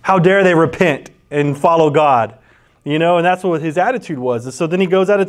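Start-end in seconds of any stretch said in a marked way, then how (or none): 0.0-2.4 a put-out, huffy Jonah complaining; a touch of hammed-up outrage; mock indignation. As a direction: sound scandalized that they repented. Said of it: "He's like".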